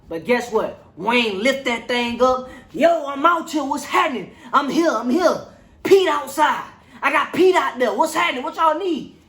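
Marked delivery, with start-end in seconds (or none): 2.7-9.2 mock calling out. Voicing Wayne calling out.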